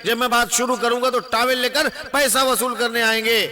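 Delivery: public address from a platform; political stump speech. Acted. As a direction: address the rally, phrase by phrase. Gives a political speech to a crowd.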